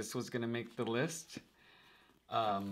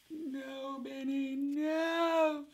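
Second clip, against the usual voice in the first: much higher, put-on voice; mock anguished cry; much slower than usual. Vlogger cutting her beloved deck, mock anguished high wail. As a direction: wail it like a hammed-up heartbreak.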